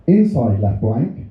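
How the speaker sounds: slow, deadpan card read; card text read out. Retold or imitated. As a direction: drag out each word flatly. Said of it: "And that sentence is".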